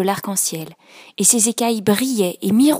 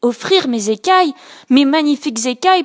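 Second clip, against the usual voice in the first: indignant; 5 semitones higher, 5 dB louder than usual. Acted. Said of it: "pensa-t-il indigné".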